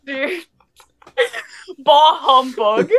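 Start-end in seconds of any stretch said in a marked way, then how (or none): 1.8-2.9 grumpy Scrooge voice. Pretend. Grumpy Scrooge-style holiday complaint.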